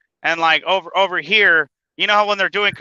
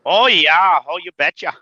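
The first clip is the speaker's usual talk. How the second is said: mock Minnesotan accent; Minnesota accent. Mimicking a coworker from Minnesota, Minnesota accent. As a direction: put on a folksy Minnesota accent. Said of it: "her accent would come out strong".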